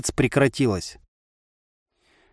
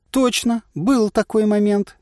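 madcap inner voice; 8 semitones higher, slower than usual. A narrator's reading. The crazy voice in head.

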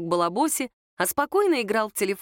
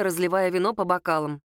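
usual speaking voice

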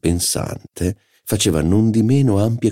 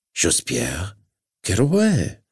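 mocking disdain; 3 semitones higher, slower than usual. Duchess mocks the name.

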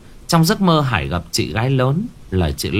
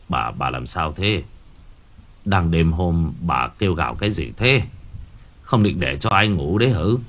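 gruff husband; 5 semitones lower than usual. Acted. Husband woken at night scolds his wife, low grumble. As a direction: grumble at her, low and half asleep.

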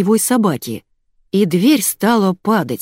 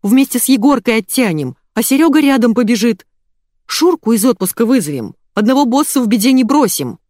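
eager, higher-pitched wheedling; fawning; 6 semitones higher, 4 dB louder than usual. A narrator's reading. Yuri promising help to the boss, fawning. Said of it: "залебезил Юрий".

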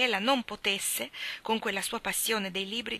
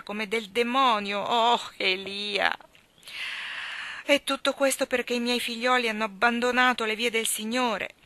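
louder, bitter complaining mother; anxious old mother; 5 dB louder than usual. Acted. Mother complaining to servant Elia about her son, bitter and anxious. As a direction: pour out her worries, hard and bitter.

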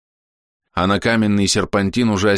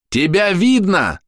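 yelled much higher, drawn out; 11 semitones higher, 3 dB louder, much slower than usual. A narrator's reading. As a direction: shout a warning across the cave. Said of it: "заорал Тануки". (громкий крик)

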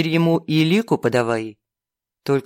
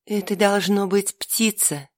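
reassuring; 4 semitones higher, 3 dB quieter than usual. Acted. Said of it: "успокаивающе сказала Лика".

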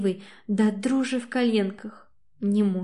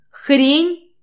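even louder, higher furious scream; 6 semitones higher, 9 dB louder than usual. A narrator's reading. Katya screams it again before running out, furious. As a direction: scream it with everything. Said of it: "орёт, забыв обо всём на свете".

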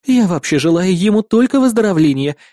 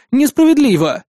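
higher, sulky protest; indignant outburst; 9 semitones higher, 3 dB louder than usual. Acted. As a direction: cry out at the unfairness. Patient's outburst. (возмущённый возглас)

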